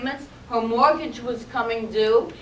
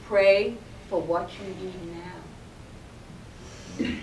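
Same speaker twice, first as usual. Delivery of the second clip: very calm; 4 semitones lower than usual. Acted. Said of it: "in a very calm, very calm manner".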